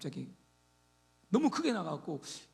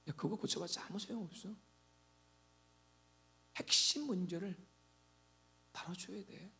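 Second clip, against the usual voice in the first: God's calm reply; 6 dB quieter than usual. Retold or imitated.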